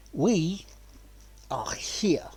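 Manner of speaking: hushed, secretive whisper on "are here"; a dramatic whispered announcement; stage whisper. Pretend. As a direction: whisper it like a big reveal. Theatrical whispered arrival.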